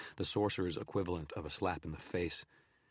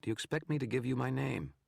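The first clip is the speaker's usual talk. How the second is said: higher, scornful challenge from a hidden enemy; taunting shadow, scornful and raised; 9 semitones higher, 4 dB louder than usual. Acted. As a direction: sneer it down from the dark. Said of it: "the shadow scorned".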